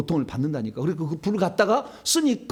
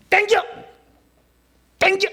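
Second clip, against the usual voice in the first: very high, loud, sharp order; explosive acted order; shouted command; 7 dB louder than usual. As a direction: yell to haul the chains tight. Acting out ordering chains pulled tight.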